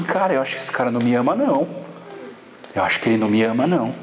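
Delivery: low, fast mutter about dad; grumbling that dad doesn't care; sulky complaint. Retold or imitated. A kid grumbling to friends that dad doesn't love him. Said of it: "e a gente fala assim".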